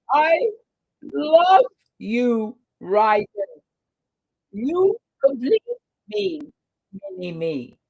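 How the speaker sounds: doting squeal trailing off; high gushing coo. Pretend. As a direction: coo like to a baby. Repeats gushing to Ryden.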